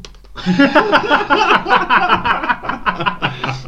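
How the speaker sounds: high burst of real laughter; loud laughter. Real, not acted. Friend cracking up at her dad's pub story, loud laughter. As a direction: crack up loudly, pitch flying up.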